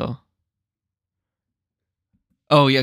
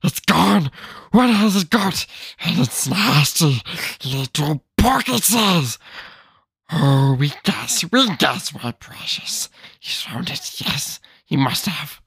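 Gollum. Acted. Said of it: "my best Gollum voice".

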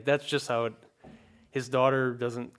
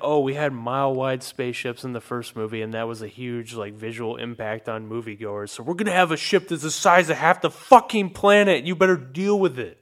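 mock studio boast; 8 dB louder than usual. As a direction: boast like a greedy studio exec. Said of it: "it's like".

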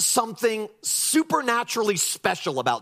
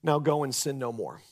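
gentle Jesus; 6 semitones lower, 5 dB quieter than usual. Retold or imitated. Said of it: "And Jesus said".

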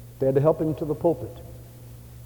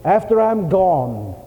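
raised, fervent plea to the pastor; earnest request; 8 semitones higher, 6 dB louder than usual. Retold or imitated. Giving man asks the pastor for help, fervently. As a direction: lift the voice with conviction. Preacher voices a donor's request.

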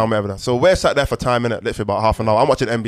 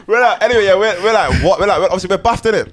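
laughing through words; 7 semitones higher, 4 dB louder than usual. Real, not acted. Still laughing, resuming the story.

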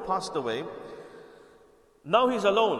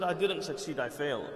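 dejected; 4 semitones lower than usual. Retold or imitated. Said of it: "He was really upset, very down".

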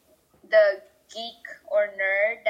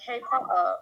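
British "Potter" with the T swallowed and no R; mock-British glottal stop in "Potter"; exaggerated British accent; 3 semitones lower, 4 dB quieter, much faster than usual. Shown as a demonstration. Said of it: "British people would say something like".

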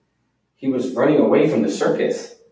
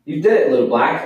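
higher, a bit louder cheer; happy yell; 5 semitones higher, 4 dB louder, faster than usual. Acted. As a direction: cheer the pony's big trick. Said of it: "I yelled".

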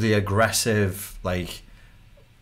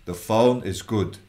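vague salesman; slower than usual. Retold or imitated. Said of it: "they're vaguely signaling".

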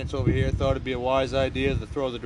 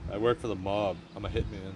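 deadpan hitman; 5 semitones lower, 5 dB quieter than usual. Pretend. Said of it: "as straight face as I possibly can".

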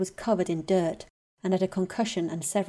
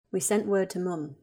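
wooden voice. Acted. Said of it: "Charlie said in a wooden voice".

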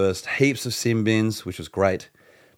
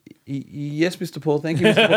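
higher, stammering servant thanks, lightly voiced; mock bowing servant; 6 semitones higher than usual. Fan thanking the footballer like a bowing servant. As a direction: grovel like a nervous servant, half-laughing. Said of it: "bowing like some kind of servant".

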